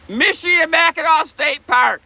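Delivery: "Michilimackinac" as MISH-ill-ee-MACK-in-aw, the C silent; careful pronunciation. Shown as a demonstration. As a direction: model "Michilimackinac State Park" for viewers. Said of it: "Practice this word".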